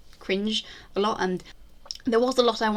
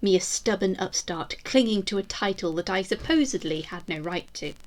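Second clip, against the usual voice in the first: a proud Tudor queen vowing vengeance, grand and measured; defiant queen's proclamation. Acted. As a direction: declaim it like a queen swearing she shall not fall. Queen's defiant proclamation caption read.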